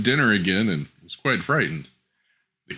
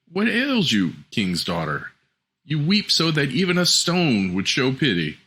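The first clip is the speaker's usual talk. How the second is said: frog voice; 5 semitones higher than usual. Acted. Frog addresses the weeping princess.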